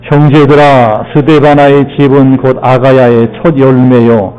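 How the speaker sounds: measured, even-pitched recitation for unison reading; scripture reading. Acted. Preacher leading congregation in reading Corinthians together, measured recitation. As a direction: read it out steadily, phrase by phrase.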